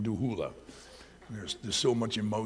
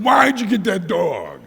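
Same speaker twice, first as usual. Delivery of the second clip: much higher, louder protest; jealous cat complaint; 12 semitones higher, 15 dB louder than usual. Retold or imitated. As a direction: scold the owner. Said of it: "He's just going".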